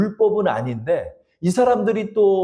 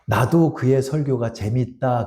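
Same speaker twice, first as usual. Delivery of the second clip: God's reply; 4 semitones lower, slower than usual. Retold or imitated. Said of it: "그러더래요, 하나님이".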